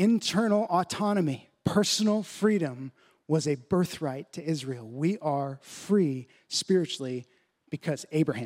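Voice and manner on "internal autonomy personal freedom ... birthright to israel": stressed word personal. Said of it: "In their thinking".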